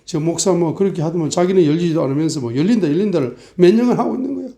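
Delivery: mock scornful challenge, quickening and rising toward the end. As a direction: imitate sceptical congregants jeering at the pastor. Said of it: "막 계속 조롱하고".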